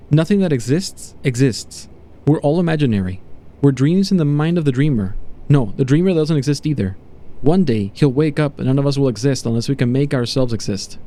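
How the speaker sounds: a touch of feverish conviction; mildly raving subject. Acted. Subject to doctor about the dreamer, mildly raving. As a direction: preach a mad revelation, lightly acted.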